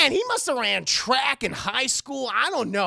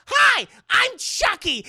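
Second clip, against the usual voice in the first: high, loud, slow eerie doll greeting; sing-song menace from a toy; creepy doll; 13 semitones higher, 8 dB louder, slower than usual. Retold or imitated. Possessed doll greets the mother, high eerie loud greeting.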